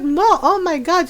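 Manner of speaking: put-on accented Filipino mom telling off her son; imitating scolding mom. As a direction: mimic a mother's stern, deliberate threat. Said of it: "she do my voice very well".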